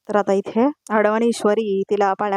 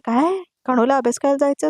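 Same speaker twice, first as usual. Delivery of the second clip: surprised; 5 semitones higher than usual. Acted. Ishwari mishears whispered words.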